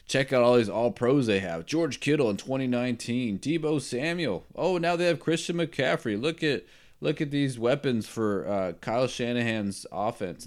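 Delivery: imitating gushing TV commentary; mock broadcast hype. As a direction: rattle off star names like a hyped broadcaster. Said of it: "the broadcast was like".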